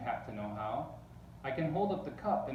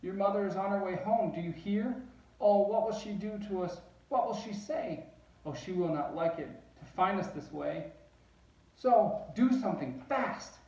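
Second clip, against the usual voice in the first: high and loud, rushing in alarm; a frantic fish warning that mother is coming; high loud fish panic; panicky fish; 7 semitones higher, 4 dB louder than usual. Acted. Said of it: "our fish shook with fear".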